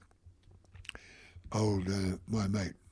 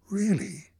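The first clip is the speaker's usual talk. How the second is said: breathless whispered really, pitched up; whispered surprise; 10 semitones higher, 5 dB louder than usual. Retold or imitated. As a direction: gasp it under your breath in disbelief. Official startled at seeing Murdoch.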